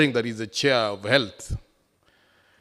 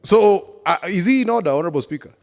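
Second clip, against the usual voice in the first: shouting order order; 7 semitones higher, 5 dB louder than usual. Real, not acted. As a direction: hammer the point home angrily. Heated objection in assembly debate.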